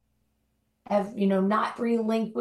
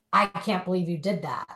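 weightier, falling 'can't believe it'; reproachful disbelief. Shown as a demonstration. Speaker showing the other reading of a text, reproachful disbelief. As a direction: say it as a mild reproach. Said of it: "assign our own perceived tone of voice".

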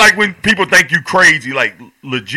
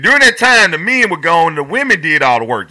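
comic retelling. Retold or imitated. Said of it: "He said".

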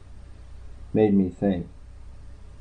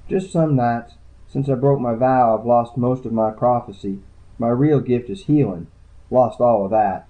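lightly raised voice for the tired, shy woman; woman's voice; 4 semitones higher, 4 dB louder than usual. Acted. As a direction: read her lines a little higher and wearier. Woman speaks of lost gift.

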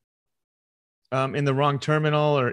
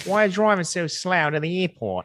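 exaggerated Australian passenger voice; mock Australian accent; 5 semitones higher than usual. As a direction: ham up an insulting Aussie accent. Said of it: "a very insulting accent".

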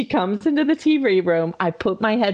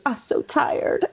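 slow, high mock whimper; imitated tearful toddler; 5 semitones higher, 3 dB quieter, slower than usual. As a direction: mimic an exhausted child through tears. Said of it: "with tears in her face".

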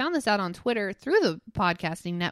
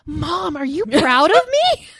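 put-on toddler son; 4 semitones higher, 8 dB louder than usual. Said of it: "He goes".

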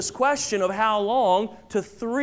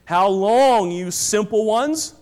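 pleading call; 4 dB louder, slower than usual. Acted. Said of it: "Look at verse twenty-two".

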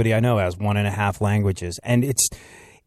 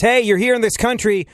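higher, mock-irritated call-out; pitched-up mock outrage; indignant local; 10 semitones higher, 4 dB louder than usual. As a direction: scold like a fed-up local.

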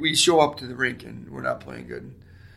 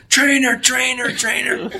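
calling out; 12 semitones higher, 12 dB louder, slower than usual. Retold or imitated. Goalie calling for the trainer.

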